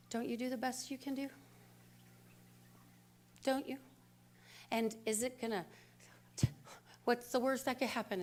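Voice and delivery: soft, gentle self-talk, quietly; calm inner voice. Retold or imitated. Inner voice calming her in traffic, softly reassuring. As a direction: soothe yourself in traffic, softly. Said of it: "this idea came and said".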